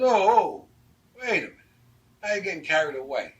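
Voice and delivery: loud, high-pitched joking objection; mock protest. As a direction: halt him in playful alarm. Mock protest at asking for more.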